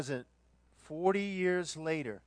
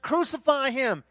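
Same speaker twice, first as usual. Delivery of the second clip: crowd shout; 7 semitones higher, 6 dB louder than usual. Acted.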